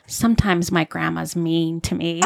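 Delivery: put-on quoting the kid while laughing; a hint of a sad little boy, laughing; half-laughed kid complaint; laughing through quote. Boy's complaint retold, laughing.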